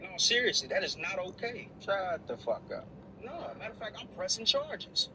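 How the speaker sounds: high, indignant outrage; just got slapped. Acted. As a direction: squeal with offended fury. Outraged after being slapped.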